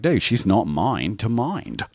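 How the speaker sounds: drawn-out half-assed Australian; fake Australian accent. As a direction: explain slowly in a put-on Australian accent. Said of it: "talking in my fake Australian accent".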